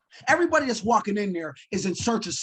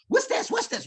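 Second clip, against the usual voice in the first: high, quick eager asking; imitating himself as an eager student; eager questions; 10 semitones higher than usual. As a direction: pester the teacher with curiosity. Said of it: "raising my hand every five minutes".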